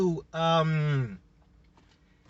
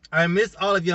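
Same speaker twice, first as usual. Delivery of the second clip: laughing; 5 dB louder, faster than usual. Real, not acted. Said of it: "repeats it with a laugh".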